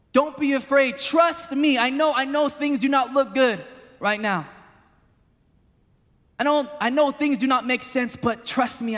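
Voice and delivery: voicing Jesus, calming a frightened father; reassuring Jesus. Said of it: "Jesus at this moment was telling Jairus".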